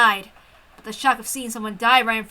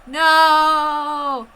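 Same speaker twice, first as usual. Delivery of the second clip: startled cry; 4 semitones higher, 4 dB louder than usual. Acted. Shock at seeing corpses.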